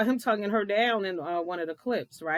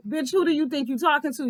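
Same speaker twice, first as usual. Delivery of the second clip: voicing Scott; 6 semitones higher, faster than usual. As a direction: talk down to her, brash. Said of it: "That's what he was saying".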